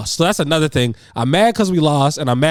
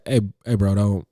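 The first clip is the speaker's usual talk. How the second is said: low, even, softer protest; calm, low-key warning to another player; calm objection; 6 semitones lower, 5 dB quieter than usual. Retold or imitated. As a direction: raise the issue calmly, voice low. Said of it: "I was very calm".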